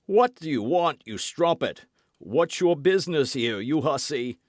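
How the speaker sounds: bristling at an unknown woman; indignant scolding. A narrator's reading. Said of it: "cried he".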